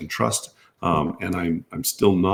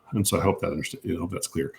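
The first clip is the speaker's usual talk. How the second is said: losing voice; 7 dB quieter, faster than usual. Real, not acted. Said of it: "allergies cause me to lose my voice".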